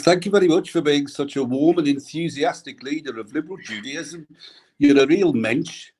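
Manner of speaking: put-on light Birmingham accent, Brummie vowels. Reading a tribute in a mild Birmingham accent. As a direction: read it like a Brummie rabbi. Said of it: "I'm gonna do this in a Birmingham accent".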